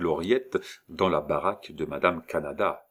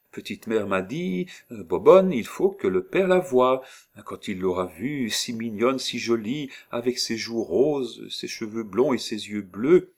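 higher, louder storytelling crone; old woman; 5 semitones higher, 3 dB louder than usual. Acted. Disguised old woman spins a tale to the girl, higher voice. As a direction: spin a sweet tale for the child.

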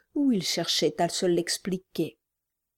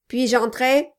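gruff gravelly dwarf voice; 5 semitones higher, 4 dB louder than usual. Acted. Quilp asks at the door.

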